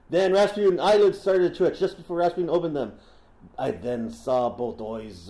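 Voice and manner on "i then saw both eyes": slow, bad Russian accent; terrible Russian accent. Podcaster reading the assassin's memoir, terrible Russian accent. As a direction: read it slowly in a poor Russian accent. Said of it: "That's a terrible Russian accent".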